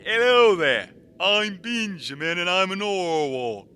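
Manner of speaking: loud hail across the water; calling out loudly. Acted. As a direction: shout a greeting from afar. Calling out to the big fish.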